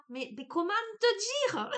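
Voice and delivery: high, loud southern French Marseille twang; exaggerated Marseille accent, loud and high. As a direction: sing it out like someone from Marseille. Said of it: "Avec mon accent marseillais".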